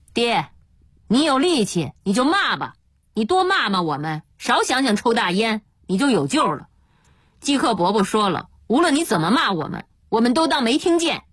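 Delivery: brushing off the abuse; unconcerned. Acted. Son shrugging off father's curses, unconcerned. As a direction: let the insults roll off, unbothered. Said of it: "嘉平满不在乎地说".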